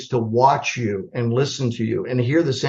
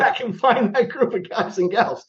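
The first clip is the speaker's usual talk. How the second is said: mock excited call; 6 semitones higher than usual. Retold excited order to turn back.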